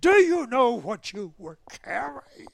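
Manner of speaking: high, loud accusing question; angry interrogation. Retold or imitated. The colonel grills the pilot about his cargo, high loud anger. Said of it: "he was so mad at me".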